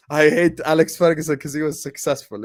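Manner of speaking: repeating it through a laugh. Real, not acted. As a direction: laugh as you say it again.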